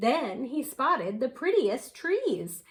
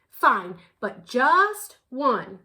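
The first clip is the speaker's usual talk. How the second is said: yawning; 6 dB louder, slower than usual. Acted. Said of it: "said the flowery pink with a yawn".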